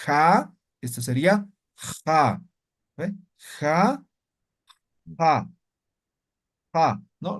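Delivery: "ja" with scraping throat friction; rasping ja. Shown as a demonstration. Teacher repeats the rasping fricative ja. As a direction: scrape every "ja" at the back.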